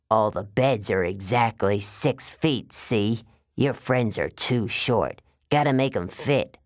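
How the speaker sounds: slow, drawn-out salesman giant; giant waterbed salesman villain. Acted. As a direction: play a matter-of-fact, menacing salesman.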